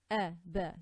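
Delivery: a, ba as quick single-count vowels; short vowel. Shown as a demonstration. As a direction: cut a, ba short. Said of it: "This is not long".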